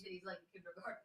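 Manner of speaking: hushed whispered aside; whispering. Real, not acted. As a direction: breathe it quietly aside.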